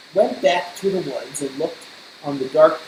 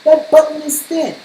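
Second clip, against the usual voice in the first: angry shout; 10 semitones higher, 7 dB louder than usual. Acted. Toad shouting angrily.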